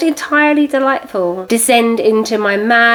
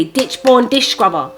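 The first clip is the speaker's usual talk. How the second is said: tongue-twister quick try; 3 semitones higher than usual. Shown as a demonstration. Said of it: "Try and say that quickly".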